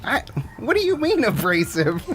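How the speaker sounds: high-pitched, defensive comeback; affronted protest. Acted. Called abrasive by a crewmate, high affronted protest. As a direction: question the accusation in a high voice. Acted squabble over being abrasive.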